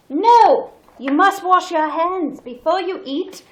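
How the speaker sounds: high, loud motherly command; bossy Snow White. Acted. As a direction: order them firmly, pitched high. Snow White scolds dwarves.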